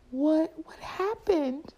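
mock panic; panicked husband. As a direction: imitate an alarmed husband, halting and high. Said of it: "he's in panic mode".

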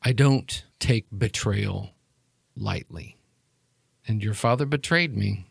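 soft, measured menace; cold villain. Acted. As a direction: speak quietly, spacing out the words with controlled threat. Game master plays cold villain.

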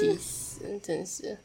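fed up. Real, not acted.

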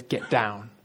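low, firm puppy command; a hint of scolding a pet; taming a puppy. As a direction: tell the storm down like a puppy. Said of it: "As if he's taming a puppy".

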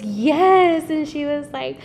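high, loud, slow and gushing; mother gushing to her pregnant daughter, high and loud; excited mom. Retold or imitated.

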